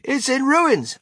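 high, loud lament; aghast, high-pitched despair; distressed cry. A narrator's reading. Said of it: "cried poor Mister Bucket".

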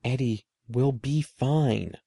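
slow, soothing reassurance; calm him down gently; big sister soothing her scared brother. Acted. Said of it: "I said soothingly".

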